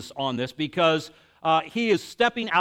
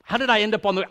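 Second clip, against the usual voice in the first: higher, louder, fast bewildered voice; baffled Pharisees; 5 semitones higher, 5 dB louder than usual. Retold or imitated. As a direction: sound thrown and confused mid-argument. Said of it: "and they're just like".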